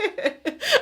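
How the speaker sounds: very high, real giggle; helpless high-pitched laughter; amused laugh. Real, not acted. Amused by her own speech.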